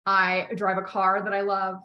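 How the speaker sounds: slow, even statement; slow declaration. Shown as a demonstration. Coach modelling a declaration about the car, slow and even. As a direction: claim it calmly as yours. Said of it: "That's how I describe the house".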